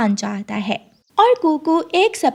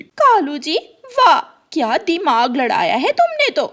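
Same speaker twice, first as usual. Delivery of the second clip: higher, a touch louder praise; admiring crow wife; 5 semitones higher, 3 dB louder than usual. Acted. Crow wife praises husband's scheme, delighted. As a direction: gush at his cleverness.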